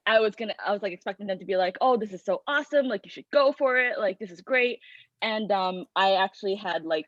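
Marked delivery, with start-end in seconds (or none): 1.8-4.8 higher-pitched imitation of an encouraging reaction; imagined enthusiasm. Student voicing the praise expected from a professor, mildly enthusiastic. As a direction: play an imagined cheerleader, mildly excited.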